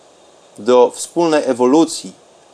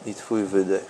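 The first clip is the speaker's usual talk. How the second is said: softer and softer meditation voice; guided meditation; 4 semitones lower, 13 dB quieter than usual. Acted. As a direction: let the voice sink into calm. Deep meditation, fading very soft.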